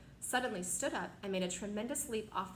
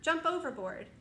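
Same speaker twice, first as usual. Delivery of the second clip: higher, louder urgent cry; urgent call; 7 semitones higher, 5 dB louder than usual. Acted. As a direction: order everyone off. Grasshopper urging escape.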